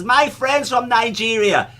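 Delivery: slow, high, laughing through it; laughing quote. Retold or imitated. Telling the guest about his friend, laughing hard. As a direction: squeeze it out between laughs.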